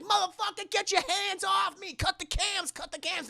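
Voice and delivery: high-pitched indignant protest; hammed-up angry objection; mock outrage. Acted angry outburst on being attacked.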